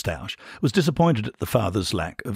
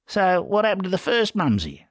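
high, curious question; a touch of keen interest, pitched up; becoming interested; 10 semitones higher than usual. A narrator's reading. Ferret probes Bernard's story, with growing interest. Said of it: "becoming interested".

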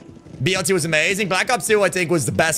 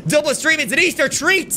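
sing-song mock cheer; 9 semitones higher than usual. Real, not acted. Mocking cheer.

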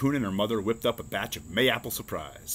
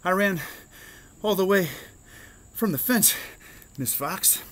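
high, out-of-breath squirrel, broken into short bursts; gasping croak; 8 semitones higher than usual. A narrator's reading. Winded Squirrel explains to the teacher, high gasping croak. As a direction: gasp it out in pieces, pitched way up. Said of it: "Squirrel croaked".

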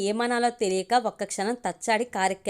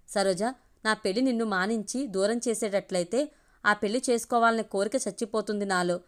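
sorrowful. Acted. Man tells Saroja he'd give up marriage, understated sorrow. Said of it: "వెదగా అన్నాడు".

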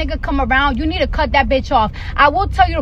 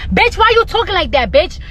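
mock-indignant, pitched-up call-out; confrontational; 3 semitones higher than usual. Speaker confronting a friend about her fake cute voice, indignant.

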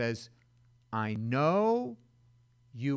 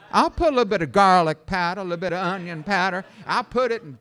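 fast excited; 3 semitones higher, 9 dB louder, faster than usual. Real, not acted. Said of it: "recipe for dog food".

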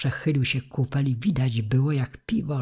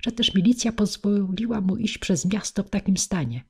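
higher, fearful woman's voice; frightened woman; 7 semitones higher than usual. A narrator's reading. Woman shocked that the police let him through, frightened. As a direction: stumble in, high and alarmed. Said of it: "głos kobiecy, wylękniony".

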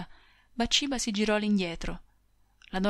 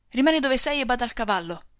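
comando secco, più forte; ordine perentorio; 4 semitones higher, 6 dB louder than usual. Acted. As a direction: ordinale di restare senza discutere. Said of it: "gettandole perentoriamente redini e frusta". (il marito ordina alla moglie di restare, perentorio)

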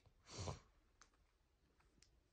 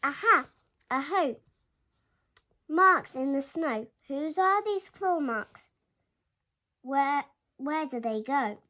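put-on louder, eager child calling across the snow; excited calling out; 5 dB louder than usual. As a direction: call out boldly, searching for tracks. Gruffalo's child calls out in wood.

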